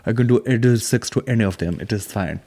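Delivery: mock Indian accent for a boastful yoga guru. Comedian quoting the Bikram guy, mock Indian accent. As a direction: put on a hammy Indian accent. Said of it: "the Bikram guy is like".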